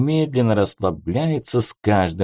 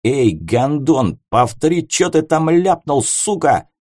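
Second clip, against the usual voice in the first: furious; 5 semitones higher than usual. Acted. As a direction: snap and threaten. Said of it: "меня сорвало конкретно".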